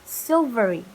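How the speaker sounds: Silvery, S light and V buzzing; soft S, bold V. Shown as a demonstration. Teacher correcting the S in Silvery. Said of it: "S here is not bold".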